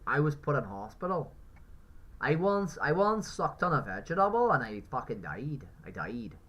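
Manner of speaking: hammed-up tale of woe; mock outraged excuse. Mimicking people who defend eating meat, mock-dramatic.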